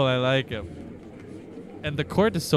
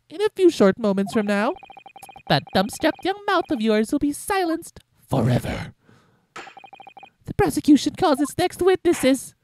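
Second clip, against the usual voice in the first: sneering villain voice; 12 semitones higher, 3 dB louder than usual. Acted. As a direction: menace the young lawyer. Voicing the villain prosecutor.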